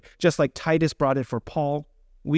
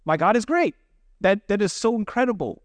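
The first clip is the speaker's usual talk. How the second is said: bigger excited praise; 6 semitones higher than usual. Retold or imitated. Counselors celebrating a kid's faith, overflowing excited praise. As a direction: let the wonder burst out on the repeat. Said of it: "looking at each other like".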